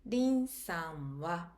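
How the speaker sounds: slow, drawn-out Lin-sanは with a rise; teacher stretches out Lin-sanは; slow model phrase. Shown as a demonstration. Teacher models Lin-sanは slowly for learners.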